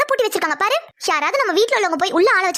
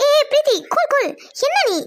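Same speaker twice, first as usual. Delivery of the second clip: higher-pitched, hurried interjection; hasty calming; 6 semitones higher than usual. Acted. Schemer stopping the worried sister from calling uncle, urgently placating. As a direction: cut in high to calm her down.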